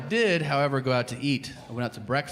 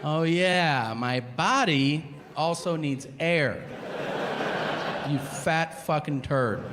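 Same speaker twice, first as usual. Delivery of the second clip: mock breathless realization; 5 semitones higher, slower than usual. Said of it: "You're like".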